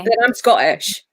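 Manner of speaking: very Scottish delivery; strong Scottish accent. Real, not acted. Explaining own pronunciation to a friend, strong Scottish accent. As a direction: say it in a real, thick Scottish accent. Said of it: "most Scottish accent I've ever heard".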